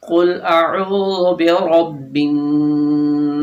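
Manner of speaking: slow recitation, س in الناس soft with a whistle; slow tajweed recitation with whistling س; soft whistling seen. Shown as a demonstration. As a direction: chant الناس slowly, let the س hiss softly. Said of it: "نرمی ہوگی اور سیٹی کی آواز آئے گی".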